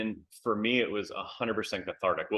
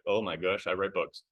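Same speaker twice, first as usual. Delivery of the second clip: dawning alarm. Retold or imitated. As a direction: replay it sinking in, under your breath. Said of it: "What books do I not want my pastor to read?".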